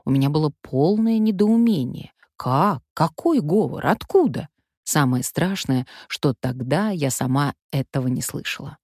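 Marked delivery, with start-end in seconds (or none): none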